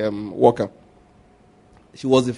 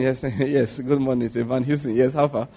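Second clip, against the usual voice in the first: soft, low, self-satisfied murmur; smug quiet boast; 4 semitones lower, 8 dB quieter than usual. Pretend. Man in a new shirt boasting softly to a stranger. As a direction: preen quietly about the shirt.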